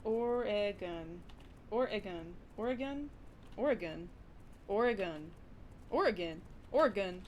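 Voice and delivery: "Oregon" repeated carefully, testing each version; practising the pronunciation. Shown as a demonstration. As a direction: try out "Oregon" word by word, with pauses. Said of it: "trying to do all these American states justice by pronouncing them right".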